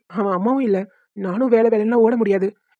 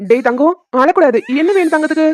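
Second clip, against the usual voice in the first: louder, higher-pitched coaxing; soothing a baby; 4 semitones higher, 4 dB louder than usual. Acted. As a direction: coo over a crying little one. Father soothing crying baby.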